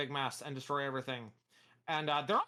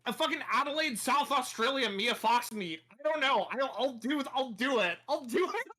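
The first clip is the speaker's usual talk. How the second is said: higher, animated Aussie accent; Australian accent; 6 semitones higher, 4 dB louder than usual. Shown as a demonstration. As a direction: lean into a lively Australian accent. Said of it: "being able to do an Australian accent".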